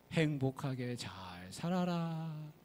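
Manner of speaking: slow, gentle blessing; benevolent blessing. Acted. Mountain god blessing the couple, slow and kind. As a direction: bless them slowly like a kind elder.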